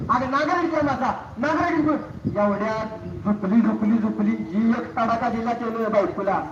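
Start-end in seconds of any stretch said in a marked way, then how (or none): 0.1-2.3 raised, pressing insistence; insistent protest. Acted. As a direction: insist he's telling the truth. Husband insists to wife.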